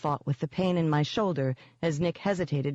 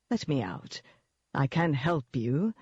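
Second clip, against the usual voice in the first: congenial. Acted. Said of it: "all congeniality".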